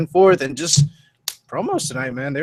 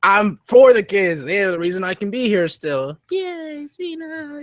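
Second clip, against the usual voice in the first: mock Cena; 6 semitones higher, slower than usual. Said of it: "And then Cena, of course".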